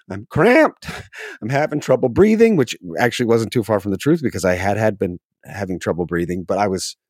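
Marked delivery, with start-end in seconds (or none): 0.1-2.6 high and louder, a hammed-up panic; mock panicked cry. Patient crying out to the doctor, hammed-up louder panic. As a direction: play the overexcited patient pleading with the group. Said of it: "I raise my hand and I say".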